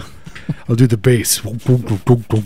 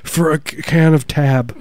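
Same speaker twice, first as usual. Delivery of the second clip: announcer voice; 5 semitones higher than usual. Pretend. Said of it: "we just announce every th-, little last thing we're doing".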